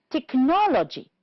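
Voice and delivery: technology with NOL high, then falling; stress on second syllable. Shown as a demonstration. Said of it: "two syllables before".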